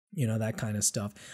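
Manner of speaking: ordinary delivery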